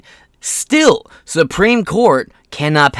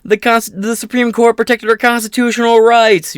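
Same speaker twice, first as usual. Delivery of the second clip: higher pitched jumping-for-joy cheer; mock celebration; 8 semitones higher than usual. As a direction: celebrate like you're bouncing up and down. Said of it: "I'll be jumping up and down saying".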